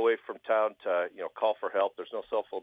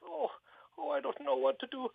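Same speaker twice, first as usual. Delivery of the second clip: crying Sven. Acted. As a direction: whimper it out like a freezing, crying man. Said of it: "so he starts to cry".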